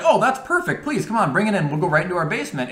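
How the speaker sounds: high, eager mock girlfriend voice; lightly voiced eager girlfriend. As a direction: chirp it like the overly keen hostess.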